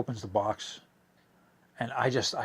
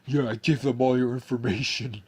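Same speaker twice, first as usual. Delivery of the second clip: smug Peter voice; 4 dB louder than usual. Retold or imitated. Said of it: "And he said".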